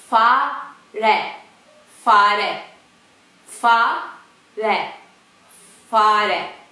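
fare with a breathy f and rolled r; Turkish pronunciation. Shown as a demonstration. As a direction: say fare slowly, airy f.

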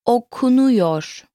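okunuyor drawn out syllable by syllable; slow teaching model. Shown as a demonstration. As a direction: stretch okunuyor slowly for a learner to copy. Teacher models word slowly, then normally.

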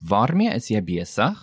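"Waarmee is jy besig?" with a rise on "besig"; rising intonation. Shown as a demonstration. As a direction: lift the end of "besig" as a question. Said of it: "Note again the rising intonation".

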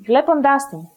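"βλέποντάς την" stressed on βλέ and ντάς; "την" unstressed after stressed ντάς; double stress. Shown as a demonstration. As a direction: say "βλέποντάς την" as one unit, two stresses. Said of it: "The second case of enklisis".

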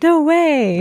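"No way." said high in disbelief; playful astonished no way; mock amazement. Host shows English amazement, playful. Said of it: "We're like".

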